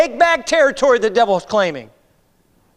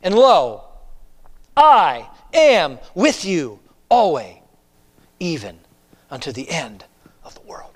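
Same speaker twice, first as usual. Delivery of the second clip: from firm to hushed whisper; fading to a whisper; 6 semitones lower than usual. Acted. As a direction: let the promise sink into a whisper. Reading promise fading to whisper.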